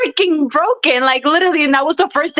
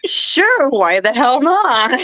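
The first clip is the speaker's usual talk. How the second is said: breezy agreement; much slower than usual. Retold or imitated. Wrestler retelling her reply to the photographer, breezy. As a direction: play up a carefree yes. Acting out her casual yes.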